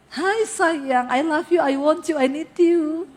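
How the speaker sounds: lightly sugary, mock-loving welcome; mock-sweet lover's hello; sweet romantic greeting. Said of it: "Begitu? Nggak".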